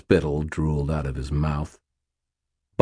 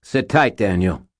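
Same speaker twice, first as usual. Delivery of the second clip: calling out; 3 semitones higher, 4 dB louder than usual. Acted. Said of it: "Butters called".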